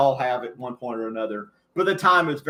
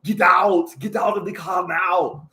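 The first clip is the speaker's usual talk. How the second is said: slow, shouted action-hero command; Arnold Schwarzenegger impression; 3 semitones higher, slower than usual. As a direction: order them out like the Terminator. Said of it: "my Arnold Schwarzenegger impersonation".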